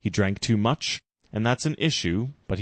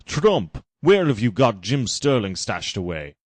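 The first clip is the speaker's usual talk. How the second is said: commanding call; 4 dB louder than usual. Acted. Farshnook barks at Trump.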